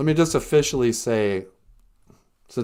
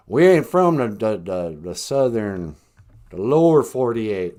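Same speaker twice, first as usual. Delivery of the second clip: backwoods Alaskan with a Southern twang; redneck Southern drawl; 2 semitones lower, 3 dB louder than usual. Acted. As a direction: play a redneck Southern local. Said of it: "you wanna hear redneck, uh, Southern drawl".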